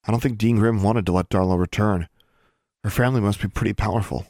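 ordinary delivery, nothing marked

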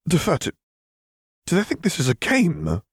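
sharp, high angry snap; snapped. A narrator's reading. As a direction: bite the words off in disbelief. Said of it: "Caitlin snapped".

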